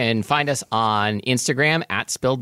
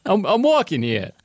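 tough-guy chamomile; 9 semitones higher than usual. Acted. Chamomile tea complaining I'm walking here, tough-guy voice. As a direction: push it out like a comic street tough. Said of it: "I sound really tough".

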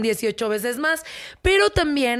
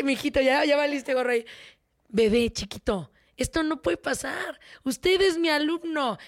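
teacher letting him down; 2 semitones higher than usual. Retold or imitated. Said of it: "Eso le dice ella".

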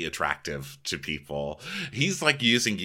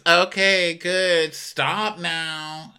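high, louder exasperated voice; mock Ashley; 9 semitones higher, 4 dB louder, much slower than usual. Host voicing Ashley shutting Tom down, high and exasperated. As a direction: brush him off, fed up.

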